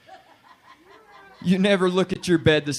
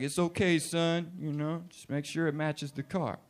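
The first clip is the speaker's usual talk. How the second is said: lightly voiced grandpa; 7 dB quieter than usual. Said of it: "Grandpa said there wasn't nothing wrong".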